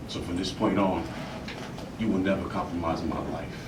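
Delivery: low, soft, controlled dismissal; quiet banishing. Acted. Actor getting rid of the other, quietly firm. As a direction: dismiss them with hushed finality.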